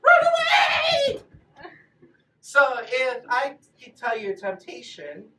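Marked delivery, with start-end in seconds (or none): 0.0-1.2 loud shout on run away. Shown as a demonstration. Teacher demonstrates fleeing temptation, shouting. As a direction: yell it out as you flee. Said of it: "I'll tell you what the best thing to do".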